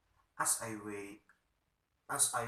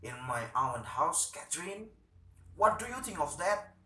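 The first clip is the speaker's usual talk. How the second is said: indignant outrage; 5 semitones higher than usual. Acted. Stockmann indignant at treatment.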